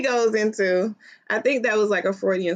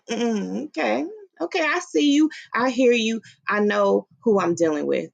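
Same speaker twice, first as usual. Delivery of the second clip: knowing mock reply; 2 semitones higher than usual. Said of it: "That's what that means".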